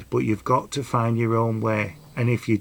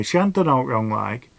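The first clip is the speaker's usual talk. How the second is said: ordinary talk, nothing marked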